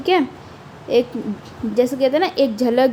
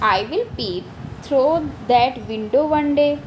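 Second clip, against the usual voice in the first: slow poem reading; much slower than usual. Acted. Reads poem line.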